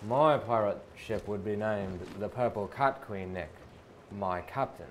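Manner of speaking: a different pirate voice; another pirate voice. Acted. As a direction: switch to a new pirate character. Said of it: "we're gonna switch to another pirate voice here".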